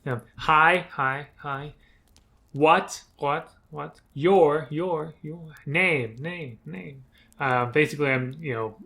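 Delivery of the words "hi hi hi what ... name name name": each word echoed, fading away; ventriloquist echo. Shown as a demonstration. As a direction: echo effect without moving lips. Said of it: "It uses some ventriloquistic, uh, techniques".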